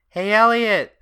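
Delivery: high, loud excited calling. Acted. Lake calling Elliot to look, very excited. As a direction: burst out, calling a friend over. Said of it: "And she's very excited".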